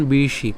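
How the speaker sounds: "বিশি" with a retroflex sh, tongue curled back; retroflex sibilant. Shown as a demonstration. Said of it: "মূর্ধন্য স আছে".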